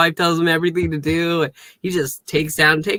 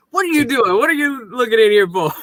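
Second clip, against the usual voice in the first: mock indignant; 8 semitones higher, faster than usual. Quoting mayor at sheriff.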